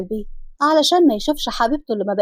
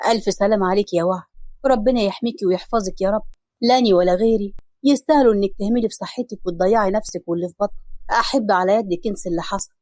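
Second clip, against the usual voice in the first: tender husband; 4 semitones lower than usual. Acted. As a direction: murmur comfort at her bedside. Hassan softly comforting his wife.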